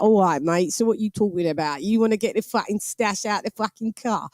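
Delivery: rapid-patter East London geezer talk; East London accent. Shown as a demonstration. Londoner demonstrating film slang to an American, East London accent. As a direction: put on a lightly menacing East London accent. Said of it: "I can actually speak like that".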